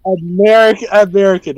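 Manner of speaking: put-on American twang on the word; American accent. Shown as a demonstration. Man retrying after his friend laughs, mock American accent. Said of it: "I can add an American accent".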